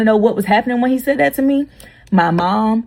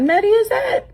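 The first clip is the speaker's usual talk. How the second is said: high, shocked question; surprised. Retold or imitated. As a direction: gasp it out in disbelief.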